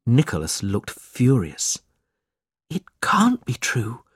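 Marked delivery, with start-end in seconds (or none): 2.7-4.0 higher, whispered disbelief. A narrator's reading. Kate reacting to the letter, whispering. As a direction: whisper it in shock. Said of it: "whispered Kate".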